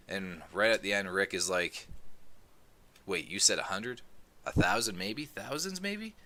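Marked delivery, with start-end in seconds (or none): 3.1-6.1 higher, rising alarmed questions; panicking. Retold or imitated. Rick panicking at Dwight's count, voice climbing high. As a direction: rush from doubt into panic. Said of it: "Rick is panicking".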